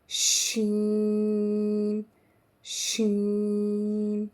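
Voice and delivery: शीन slow, sh held long; sh sound. Shown as a demonstration. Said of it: "ज़ोर से थोड़ा बोलेंगे तो क्या बन जाएगा".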